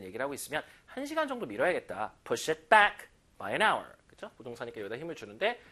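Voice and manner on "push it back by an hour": slow, both "push" and "back" stressed. Shown as a demonstration. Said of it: "양쪽에 힘 줄게요".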